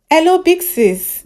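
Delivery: high, slow drawn-out greeting; doctor caller greeting the host, high and slow; high slow hello. Acted.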